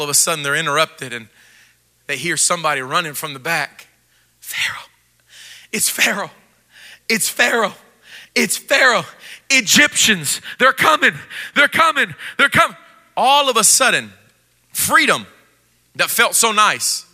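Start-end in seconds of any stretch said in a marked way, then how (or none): 4.4-12.8 alarmed warning. Acted. Panicked runner warns of Pharaoh.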